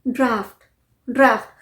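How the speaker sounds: ड्राफ्ट with gh said as f, "draaft"; long aa and f in ड्राफ्ट; correct pronunciation. Shown as a demonstration. Teacher reveals the word, ड्राफ्ट as draaft. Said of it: "इसे हम pronounce करते हैं".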